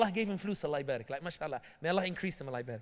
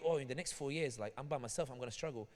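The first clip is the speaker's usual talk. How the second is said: mock lament; 6 semitones lower, 4 dB quieter than usual. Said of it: "you're sitting here going".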